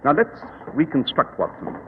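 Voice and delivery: calm, superior detective explaining; Sherlock Holmes. Acted.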